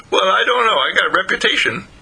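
high, hedging skunk voice; reluctant skunk. A narrator's reading. Skunk balks at dog's advice.

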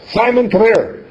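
calling gently. Retold or imitated. Mother calling her son over kindly, no anger. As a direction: call him over without anger. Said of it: "And she wasn't angry".

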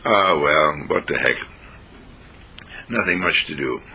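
low, mildly downcast mock grumble; morose resignation. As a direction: voice a listless, down-in-the-dumps thought. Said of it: "sad and morose, and you're feeling down".

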